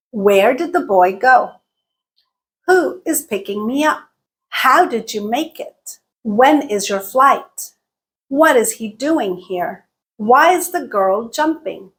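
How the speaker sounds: information-seeking questions, pitch down on the last word; falling question intonation. Shown as a demonstration. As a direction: open questions that drop in pitch at the end. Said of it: "uses a falling intonation".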